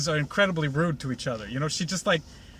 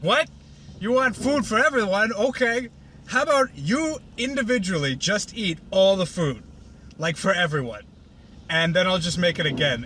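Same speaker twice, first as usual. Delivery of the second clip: folksy mock offer; 3 semitones higher than usual. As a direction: offer it up like an eager farmhand. Applejack offering food.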